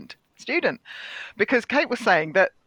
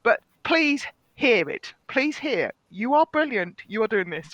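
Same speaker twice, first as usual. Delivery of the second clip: choked-up, emphatic encouragement; emotional, heartfelt; slower than usual. Real, not acted. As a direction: plead with them slowly to take it in. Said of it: "I'm getting really emotional now about this".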